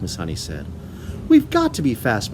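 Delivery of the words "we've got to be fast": high, loud urgent cry; child urging her teacher; cried. A narrator's reading. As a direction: push urgently. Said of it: "Matilda cried".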